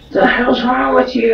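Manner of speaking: high, loud disbelief; what is wrong with you, shouted high; outraged. Real, not acted. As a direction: yell at him in shock. Friend outraged at the confession.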